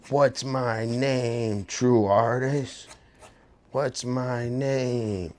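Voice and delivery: slow, drawn-out menacing question; mock aggressive taunt. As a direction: drag out the name demand like an unhinged stranger. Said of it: "super aggressive".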